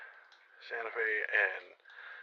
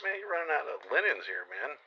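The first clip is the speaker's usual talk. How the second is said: sarcastic jab; 6 semitones higher than usual. Retold or imitated.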